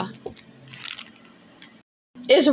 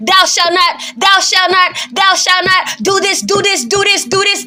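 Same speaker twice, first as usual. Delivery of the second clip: militant commands; 2 semitones higher than usual. Acted. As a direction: drill out each command like an order. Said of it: "how militant the Most High is".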